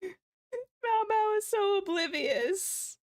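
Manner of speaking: high, slow giggly voice; barely getting words out from laughing; laughing through tears. Real, not acted. Viewer laughing to tears at oblivious Mao Mao, giggly. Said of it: "I have tears in my eyes".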